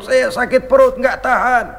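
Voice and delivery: a touch of a moaning poor man clutching his belly; mild pained groan. Retold or imitated. Hungry man tells Umar of his stomach ache, mildly pained.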